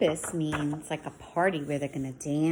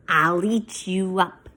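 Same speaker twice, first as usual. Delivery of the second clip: louder defiant retort; 6 dB louder than usual. Acted. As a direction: bite back at mother.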